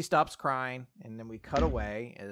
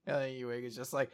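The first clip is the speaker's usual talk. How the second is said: ordinary talk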